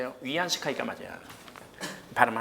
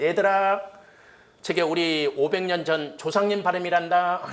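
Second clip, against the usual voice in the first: higher, louder, slow and amused; amused professor; 5 semitones higher, 4 dB louder than usual. Retold or imitated. Professor telling students about the ancestors' pronunciation, amused. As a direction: announce it like a thrilled old professor. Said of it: "교수가 금방 하는 말이".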